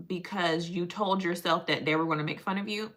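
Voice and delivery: measured mock-therapist voice. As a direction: lightly play a patient, measured therapist. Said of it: "she be looking at me like".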